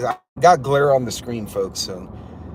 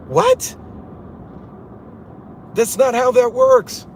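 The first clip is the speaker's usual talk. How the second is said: incredulous outburst; 10 semitones higher, slower than usual. Real, not acted. Incredulous reaction to absurd threat.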